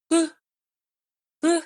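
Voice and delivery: short, wordless imitated puff of a voice; faint ghostly huh. Imitating a spirit's answer on the recording, faint huh. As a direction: imitate a faint sound caught on tape. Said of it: "we hear the faintest".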